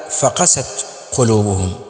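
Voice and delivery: فقست said with the push on the قاف of قلوبهم; stress on قلوبهم. Shown as a demonstration. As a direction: lean into the qaf of قلوبهم. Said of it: "وهذه هي القراءة الصحيحة".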